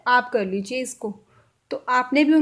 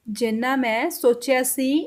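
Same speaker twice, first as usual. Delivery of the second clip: slow Punjabi model phrase; slower than usual. Shown as a demonstration. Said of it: "Punjabi में कैसे बोला".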